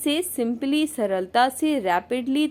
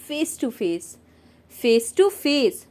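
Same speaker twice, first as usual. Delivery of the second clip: slow model word; much slower than usual. Shown as a demonstration. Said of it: "teacher models the word".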